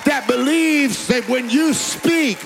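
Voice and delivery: driving, unbroken revival sermon delivery; full-force preaching. Real, not acted. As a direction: build in pitch and urgency to rouse the congregation.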